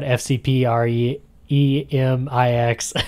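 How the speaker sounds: every letter of F C P R E M I X said; spelled out. Shown as a demonstration. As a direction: spell F C P R E M I X slowly. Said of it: "I wrote down".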